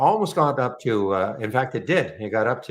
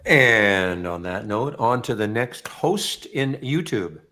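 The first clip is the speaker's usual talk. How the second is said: slow, measured newsreader handoff; news anchor voice; slower than usual. Pretend. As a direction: sign off like a TV anchor. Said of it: "your news anchor voice".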